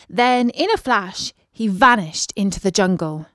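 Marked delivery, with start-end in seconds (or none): none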